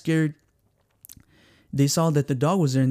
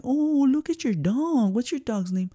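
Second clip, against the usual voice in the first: visitor's voice; 9 semitones higher, slower than usual. Retold or imitated. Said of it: "you go to the house and like".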